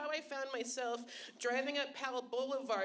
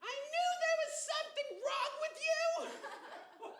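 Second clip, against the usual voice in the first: high, shrill-sounding mock heckler yell; a hammed-up high heckle; heckling lady. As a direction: play the smug heckler shouting from the crowd. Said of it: "this lady yelled out from the crowd".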